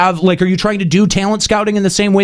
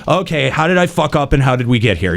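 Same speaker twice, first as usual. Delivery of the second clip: lower, non-defensive self-questioning; calm acceptance; 6 semitones lower than usual. Acted. Modeling a good response to criticism, calmly accepting. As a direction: take the criticism calmly, voice dropped low.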